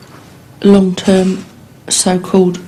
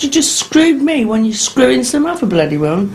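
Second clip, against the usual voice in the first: retold furious outburst; 6 semitones higher than usual. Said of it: "I said".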